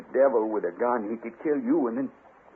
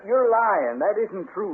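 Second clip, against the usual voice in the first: panicked denial; 8 semitones higher, 3 dB louder, slower than usual. Acted. Frightened man denies accusation.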